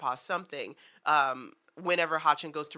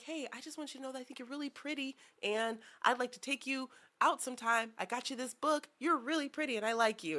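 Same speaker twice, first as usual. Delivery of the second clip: put-on lovestruck boy; 6 semitones higher, 6 dB quieter than usual. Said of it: "he's just like".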